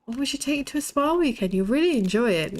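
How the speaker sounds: quick, high, pushy in-law; mother-in-law voice. Retold or imitated. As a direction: sell the spa trip eagerly. Mother-in-law pitching spa weekend.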